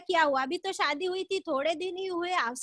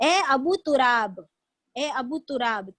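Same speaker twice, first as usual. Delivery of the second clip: tender call; 2 semitones lower, slower than usual. Retold or imitated. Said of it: "सुनिए".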